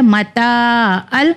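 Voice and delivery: متا ال with the نون merged into لام; slow merged متا ال; idgham merge. Shown as a demonstration. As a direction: blend متا ال smoothly, no separate نون. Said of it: "ادغام کا قانون آ گیا".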